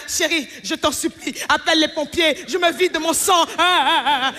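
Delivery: hammed-up whimpering husband begging; mock dying man. Man begging his wife over a scratch, hammed-up panic. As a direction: overplay a man bleeding to death. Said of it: "Mais si c'était vous".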